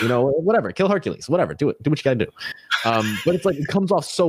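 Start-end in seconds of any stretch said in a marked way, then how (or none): 0.0-2.3 casual cartoon villain menace; Hades voice. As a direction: toss off the threat like a breezy underworld villain. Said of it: "you're talking like this".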